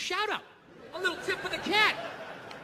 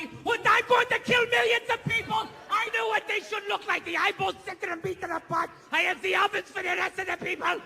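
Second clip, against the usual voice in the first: mock ranting speech; 5 semitones higher than usual.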